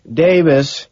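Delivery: high, loud, drawn-out exasperated "Davis"; patient sigh. A narrator's reading. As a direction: sigh it out as if to a child. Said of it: "he sighs, as if patiently".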